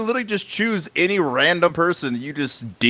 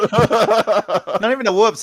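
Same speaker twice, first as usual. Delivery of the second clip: slow exaggerated disbelief; 6 semitones higher, much slower than usual. Real, not acted.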